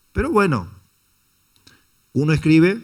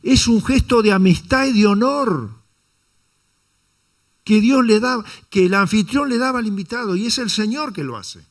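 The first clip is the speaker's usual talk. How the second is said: preaching at full force; 8 semitones higher, 5 dB louder than usual. Real, not acted. Preacher stresses the gesture of honor.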